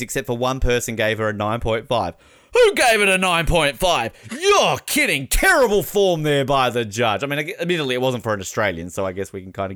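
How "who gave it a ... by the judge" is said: mock outrage. Mock outraged diving commentator.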